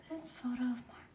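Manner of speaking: whisper. Real, not acted.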